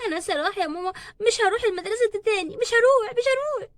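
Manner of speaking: rising to a high plea; tearful refusal. Acted. Upset daughter tells her mother she won't go back to school. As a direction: dig in through tears.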